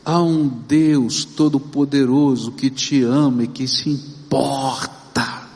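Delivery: ordinary delivery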